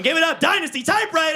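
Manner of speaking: shout. Real, not acted. Hyping the crowd.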